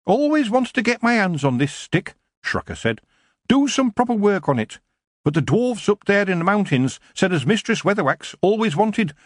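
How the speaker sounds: a craftsman itching to get his hands on it; fussy dwarf craftsman. A narrator's reading. Dwarf Shrocker moaning about the famous stick.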